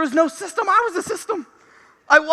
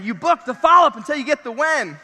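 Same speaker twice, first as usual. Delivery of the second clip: shouting; 3 dB louder than usual. Real, not acted. Preacher driving home key point.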